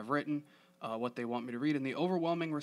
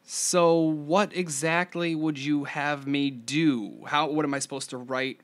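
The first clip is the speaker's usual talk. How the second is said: exasperated; 2 semitones higher, 5 dB louder than usual. Real, not acted. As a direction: lay each word down, fed up. Venting about friends' script complaints.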